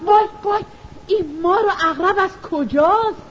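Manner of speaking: frightened cry. Acted. Mother sees snakes and scorpions at the door, frightened wail. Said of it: "با ترس و لرز فریاد زد".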